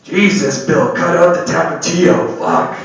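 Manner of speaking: yelling at Bill in the stall. Retold or imitated. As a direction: shout over to the next stall. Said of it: "I like to yell over to the stall".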